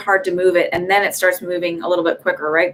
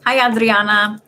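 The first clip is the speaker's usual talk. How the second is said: greeting with a light Spanish accent; 2 semitones higher, 3 dB louder than usual. Real, not acted. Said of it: "I just said it with a Spanish accent".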